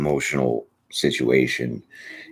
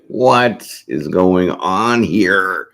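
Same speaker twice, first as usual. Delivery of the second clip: put-on slumped drunk; 3 semitones higher, 5 dB louder, much slower than usual.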